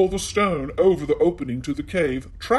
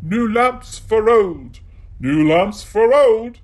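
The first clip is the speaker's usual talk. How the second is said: slow loud street cry, pitched up; calling out; 6 semitones higher, 9 dB louder, slower than usual. A narrator's reading. Disguised sorcerer calls outside the palace, loud slow street cry. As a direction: hawk it like a tradesman in the street. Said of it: "calling out".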